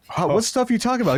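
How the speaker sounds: high innocent voice. Retold or imitated. Playing innocent with police.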